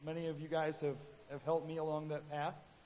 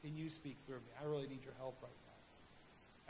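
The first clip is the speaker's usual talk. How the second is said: sincere quiet prayer; 4 semitones lower, 10 dB quieter than usual. Pretend. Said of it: "sincerely ask".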